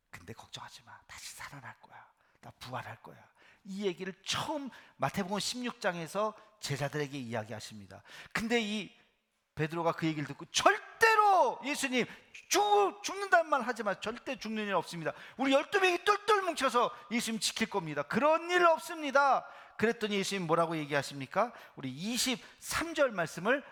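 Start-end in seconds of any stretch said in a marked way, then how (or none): 0.1-3.2 hushed, breathy secret; secret whisper. Acted. Jesus quietly telling disciples his secret, whispering. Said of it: "이게 진짜 비밀이야". 10.5-19.5 high, loud, pleading protest; protesting shout. Acted. Peter loudly protesting Jesus must not die.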